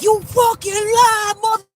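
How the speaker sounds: high, loud shouting rant; imitating a man screaming with fury; enraged. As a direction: scream it in a rage, drawing out the words. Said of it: "like, enraged".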